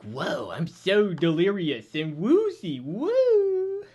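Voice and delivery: mock woozy. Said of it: "she's like".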